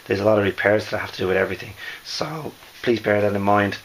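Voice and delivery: losing voice, hoarse and worn. Real, not acted. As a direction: speak through a hoarse, fading voice. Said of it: "I'm actually losing my voice".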